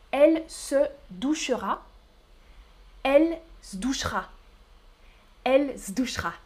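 "douchera" clipped to "douch'ra"; "se douchera" said fast, Paris style; Parisian pronunciation. Shown as a demonstration. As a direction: drop the e in "douchera". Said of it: "C'est comme ça qu'on prononce".

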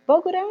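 "Bogotá" said as "Bogurá", the t turned into a tapped r; wrong "Bogotá" with r instead of t; common mispronunciation. Shown as a demonstration. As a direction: imitate learners saying "Bogorá" for "Bogotá". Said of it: "es que muchos dicen".

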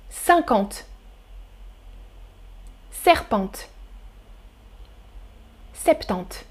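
cinquante, serpente, septante each said alone, slow and soft; listening quiz read. Shown as a demonstration. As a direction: read the options slowly with pauses. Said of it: "Je répète". (lecture lente et douce des options)

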